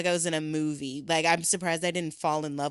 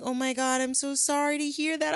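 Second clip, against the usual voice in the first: high sympathetic host; 9 semitones higher than usual. Retold or imitated. Airbnb lady voiced sympathetic.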